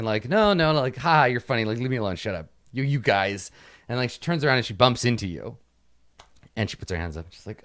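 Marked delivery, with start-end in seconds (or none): 0.3-3.5 Oksana laughing and shouting off the men; laughing, shouting NPC. Acted. Oksana shouting at the men at the bar, laughing. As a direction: brush them off with a mock shout, half laughing. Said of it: "is shouting at Soyuzkin".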